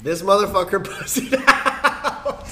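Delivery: loud, gloating bro boast; frat bro. Acted. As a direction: crow about the win like a frat guy. Boasting over the chug.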